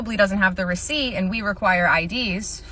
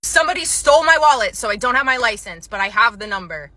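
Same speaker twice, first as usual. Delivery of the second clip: angry customer; 5 dB louder than usual. Retold or imitated. Angry customer voiced in story.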